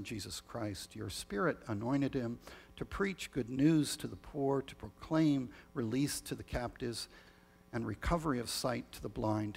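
measured, solemn prayer voice; liturgical prayer. Acted. Leads the communion prayer.

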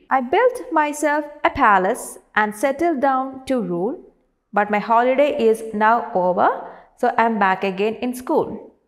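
projected classroom verse reading; teacher's measured poetry reading; poem recitation. Acted. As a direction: recite the stanza out to the whole class. Reads the poem aloud.

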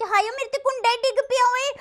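loud, high hammed-up wail; mock distress cry. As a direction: cry out in comic alarm as if hit. Mock alarm at latch falling on her. (ਨਕਲੀ ਹਾਏ-ਦੁਹਾਈ, ਉੱਚੀ ਆਵਾਜ਼ 'ਚ)

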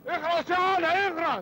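angry shout. Acted. Uncle yells at nephew.

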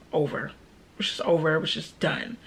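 low, softened, falling finality; quiet resignation. Real, not acted. Vlogger accepting the relationship is done, quiet resignation. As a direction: let the voice sink on each phrase.

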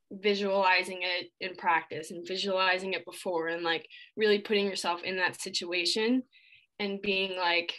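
shivering after an ice bath. Real, not acted. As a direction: teeth chattering from the cold. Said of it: "sorry if I'm shivering. I just took an ice bath".

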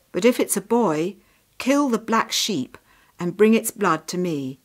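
lightly voiced stern father, firm and loud; firm storybook soldier laying down orders; commanding soldier father. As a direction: give solemn orders to a son. Soldier father gives son grim orders.

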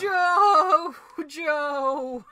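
high, loud shout for Joe; calling out. Real, not acted. Player calling to a teammate, loud shout. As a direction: yell his name across the field.

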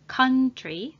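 country, first vowel a short "ah". Shown as a demonstration. Teacher models country for learners, OU said as "ah". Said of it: "O and U together are pronounced as ah".

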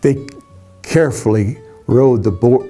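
plain reading voice

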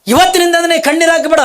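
high, loud booming divine command; voice from the sky. Acted. The heavenly voice ordering Kalavve to stop crying, booming. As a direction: proclaim it like a voice from heaven. ಆಕಾಶವಾಣಿ ಹಾಕದೆ.

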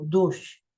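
дощ said slowly, with both sounds of Щ clear at the end; careful demo pronunciation. Shown as a demonstration. Teacher shows the class how to say дощ, slow and clear. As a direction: sound out дощ slowly, letting the final Щ be heard as two sounds. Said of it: "вимовляємо".

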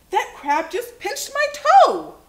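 high, loud storybook complaint; loud, high-pitched protest; pained outcry. A narrator's reading. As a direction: wail it like a pinched child. Pinched boy complains in story.

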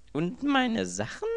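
viel höher, langsam, besorgt; ängstlich nachfragen. A narrator's reading. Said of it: "fragte Anthony besorgt". (besorgt und hoch gefragt)

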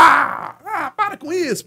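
very high, drawn-out mock disbelief, slowed down; mocking fan. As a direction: scoff at him like a teasing fan. Fans don't believe him.

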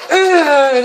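loud, high "ugh"; effort grunt. Real, not acted. Vlogger taking out aggression on paper, straining. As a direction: heave it out from hard scribbling.

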